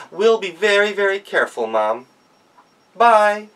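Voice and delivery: put-on eager young goat; oldest daughter. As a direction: reassure mom like an eager kid. Daughter promises mother.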